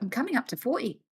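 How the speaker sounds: lightly voiced mom, quick and airy; imitating mom. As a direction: toss it off like mom playing older. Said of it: "That was her coming up to forty".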